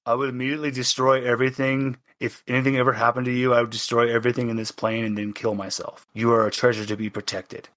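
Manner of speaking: a hint of a smitten genie, fast; doting genie. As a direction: blurt out devotion fast like an overprotective guardian. Genie gushes over Twinkie.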